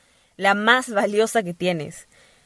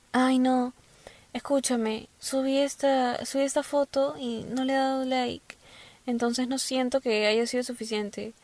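put-on anxious girl; 5 semitones higher, 6 dB quieter than usual. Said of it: "chicas que me dicen".

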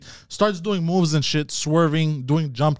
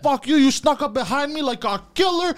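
mock skater; 10 semitones higher than usual. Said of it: "He goes".

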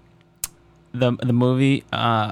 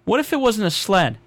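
pushy studio exec; 2 semitones higher than usual. Retold or imitated. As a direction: pitch it like a clueless executive. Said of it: "the note that the original script got was".

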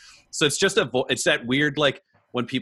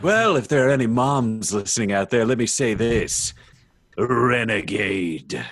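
slowing, showy hero address to the moms; confident hero; slower than usual. Acted. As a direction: play up to listeners, stretching the final word. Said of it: "he's no longer reluctant".

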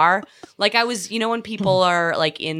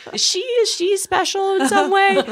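high, laughing mock disdain; mocking passerby. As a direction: sneer like a passerby, pitched high.

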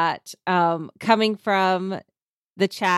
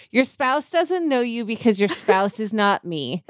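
dramatic reading. Shown as a demonstration. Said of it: "time for me to do a dramatic reading".

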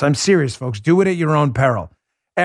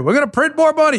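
high, sing-song sarcastic voicing; sneering put-on reply; mock answer; 10 semitones higher, faster than usual. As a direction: parody the dumb answer gleefully. Mocking Biden's inflation answer.

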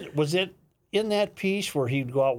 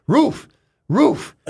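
high, loud mock bark; dog barking; 12 semitones higher, 6 dB louder than usual. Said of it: "Dog looks up, goes".

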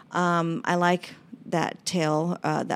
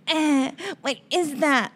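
high, slow suspicious voice of a loved one; mock suspicious relative; 9 semitones higher than usual. Lash artist mimicking a relative who distrusts her, suspicious and slow. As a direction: imitate a distrustful relative questioning you. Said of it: "You know, there's".

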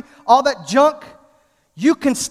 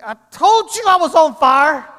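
vindicated retort; 3 semitones higher than usual. Retold or imitated. Vindicated retort after showing burns.

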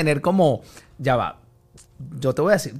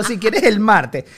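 imitating; 5 semitones higher, 6 dB louder, much slower than usual. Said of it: "Yo le digo".

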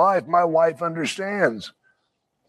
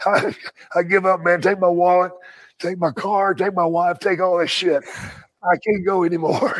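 mock surrender; 3 semitones higher than usual. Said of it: "I would have given up".

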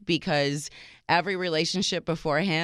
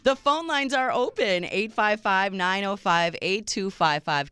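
radio host read; 4 semitones higher than usual. Acted. Host reads phone number.

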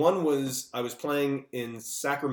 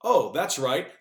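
sarcastic; 2 semitones higher, 6 dB louder, slower than usual. Acted. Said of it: "This movie sucks".

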